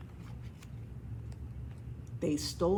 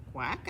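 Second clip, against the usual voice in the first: lower, softer rising quack; questioning quack; 5 semitones lower, 5 dB quieter than usual. Acted. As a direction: ask with a quiet quack. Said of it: "asked the duck".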